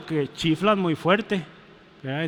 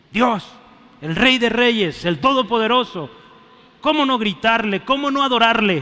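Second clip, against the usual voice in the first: rising preacher's cry; 5 semitones higher, 4 dB louder than usual. Acted. Pastor urging his congregation to shout praise, loud and high. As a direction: lift the voice as if crowning a king.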